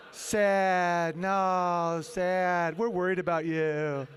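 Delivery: low, drawn-out fake sympathy; mock concern. Comic mimicking do-gooders worried about you, mock concern. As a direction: croon it low in phony pity.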